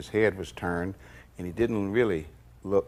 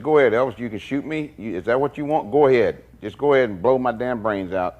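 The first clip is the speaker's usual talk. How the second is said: defiant dare; 4 semitones higher, 4 dB louder than usual. Retold or imitated. Red dares Elvis to shoot.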